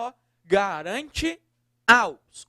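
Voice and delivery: slow build, then punch "aos"; stress on aos. Shown as a demonstration. Teacher pointing out the facultative "aos" to students, stressed. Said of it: "Aí eu substituo lá".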